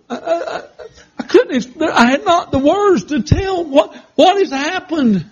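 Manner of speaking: high, shaky laughter through the words; laughing nervously. Real, not acted. Laughing as he tells the church he was different. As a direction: laugh it out while groping for words.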